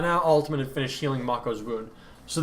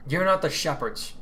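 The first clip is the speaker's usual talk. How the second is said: stern and commanding; 4 semitones higher than usual. Acted. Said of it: "the tone stern and commanding".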